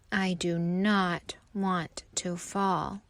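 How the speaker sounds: slow, breathy scared whisper; frightened whisper. Acted. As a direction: whisper it as if afraid to fall. Worried leaf fears falling.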